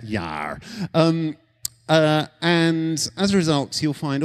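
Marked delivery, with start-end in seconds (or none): 0.0-0.6 pirate yar. Retold or imitated. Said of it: "I've gone into pirate there".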